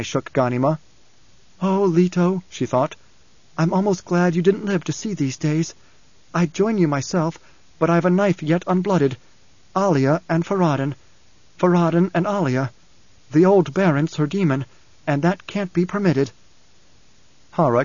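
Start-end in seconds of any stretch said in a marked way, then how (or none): 1.6-2.4 lightly voiced young woman, inward; a hint of a grieving girl thinking; Ghanima's thoughts. Grieving for her brother, lightly voiced inward. 3.6-16.3 lightly voiced young woman, bitter and inward; a hint of a vengeful girl musing; Ghanima's thoughts. Plotting revenge on Alia and Farad'n, lightly voiced.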